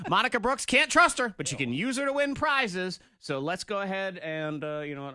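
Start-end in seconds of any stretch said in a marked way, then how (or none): 0.7-3.0 sexy radio voice. Acted. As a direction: purr the promo like a radio host. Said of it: "That's a sexy voice".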